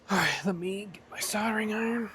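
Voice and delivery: quick whisper to himself. Real, not acted. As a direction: whisper it fast under your breath. Mutters while reaching for tools.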